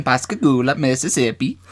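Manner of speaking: lightly put-on Italian accent, lilting up; mock Italian accent. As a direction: play the place names as mock Italian. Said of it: "In, like, an Italian".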